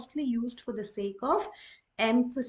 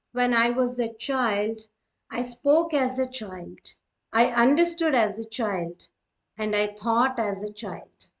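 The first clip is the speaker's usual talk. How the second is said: solemn reading; 4 dB louder than usual. Shown as a demonstration. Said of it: "mainly used for emphasizing".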